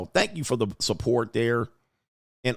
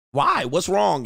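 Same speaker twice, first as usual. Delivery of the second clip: mimicking older woman; 5 semitones higher, slower than usual.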